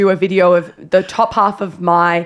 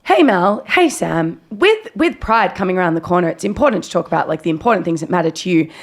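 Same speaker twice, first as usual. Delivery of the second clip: ad read; 4 semitones higher than usual. Retold or imitated. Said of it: "the script was like this".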